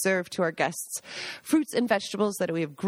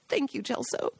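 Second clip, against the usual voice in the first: choked up; 2 semitones higher, 4 dB quieter than usual. Real, not acted. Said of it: "Sorry for getting choked up".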